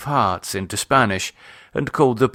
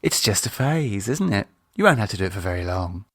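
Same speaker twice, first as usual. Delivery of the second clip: sarcastic; 2 semitones lower, faster than usual. Acted. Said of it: "she smiled sarcastically".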